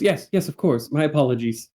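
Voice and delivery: a touch of flustered politeness; flustered waitress. Acted. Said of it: "the woman looks flustered".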